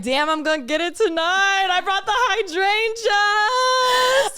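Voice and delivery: high, sing-song boast, stretching hydrangeas; proud husband impression. Mocking the husband bragging about flowers, high sing-song. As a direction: crow it like a proud hero. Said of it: "He was like".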